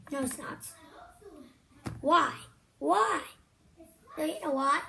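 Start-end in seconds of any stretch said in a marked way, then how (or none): 2.0-4.8 excited. Real, not acted. Eager question to mom.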